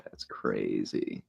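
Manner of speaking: slow, breathless whisper. Real, not acted. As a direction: barely voice it, amazed. Stunned by chart, under breath.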